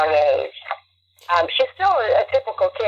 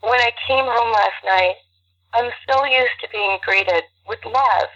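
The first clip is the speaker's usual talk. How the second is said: after crying; 3 semitones higher, slower than usual. Real, not acted. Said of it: "you've got teary".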